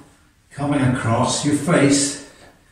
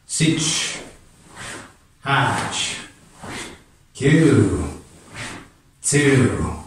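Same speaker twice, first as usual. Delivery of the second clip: sharp martial arts commands; much slower than usual. Real, not acted. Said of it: "A little bit faster".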